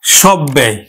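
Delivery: সব ব্যয় in two beats, b doubled. Shown as a demonstration. Teacher repeating the word for students, doubled b in সব ব্যয়. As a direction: stop on the b of সব ব্যয়, then release. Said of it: "উচ্চারণ হলো".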